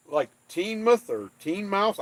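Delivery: put-on Teignmouth first as "TEEN-muth" then as "TEEN-mouth"; two guesses at Teignmouth. Shown as a demonstration. Guessing aloud at the town name, he tries Teignmouth two ways. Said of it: "Uh, not mouth".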